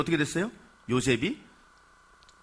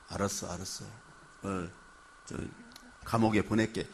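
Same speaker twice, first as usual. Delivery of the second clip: calm placating; 7 semitones lower, 6 dB quieter than usual. Retold or imitated. Potiphar calming his furious wife, quietly dismissive. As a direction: lower and much softer, dismissive.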